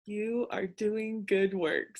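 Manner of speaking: imitating Betsy's calm affirmation; slow, gentle echo of her mentor's words. Host echoing mentor's affirmation in her voice, gentle and slow. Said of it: "in her voice".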